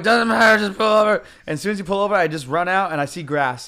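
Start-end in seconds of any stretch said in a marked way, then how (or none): 0.0-1.2 loud, higher, pressing command; acted-out loud urgency; urgent retold order. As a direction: raise it like a desperate passenger.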